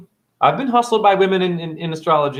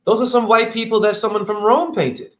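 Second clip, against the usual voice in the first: polite churchgoer's request; 5 semitones higher than usual. Retold or imitated. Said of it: "and tell them".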